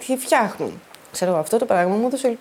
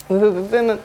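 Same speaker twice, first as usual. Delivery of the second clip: stammering; slower than usual. Real, not acted. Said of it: "πρώτη φορά τρέμει έτσι η φωνή μου".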